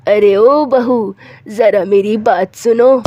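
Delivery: slow, drawn-out call across the house. Acted. Mother-in-law calls her daughter-in-law again, slow drawn-out call. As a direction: stretch the call to reach her.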